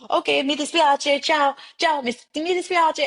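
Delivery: sing-song sorry while backing away; mock flustered apology, pitched well up; awkward polite goodbye. Politely escaping drunk man.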